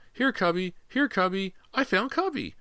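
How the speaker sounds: put-on very high little boy calling a puppy; shrill child's cries. A narrator's reading. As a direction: call your puppy in a tiny voice. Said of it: "James's shrill cries".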